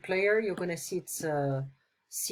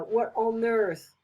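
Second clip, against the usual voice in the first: surprised; 2 semitones higher, slower than usual. Shown as a demonstration. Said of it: "that's cute and all".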